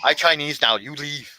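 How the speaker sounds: mock Chinese accent. Jokey Chinese accent ordering a guest out. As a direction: ham up a Chinese accent, bossy. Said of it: "different accents".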